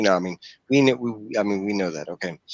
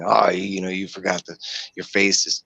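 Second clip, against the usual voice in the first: lampoon the holy-father catchphrase; mocking voice.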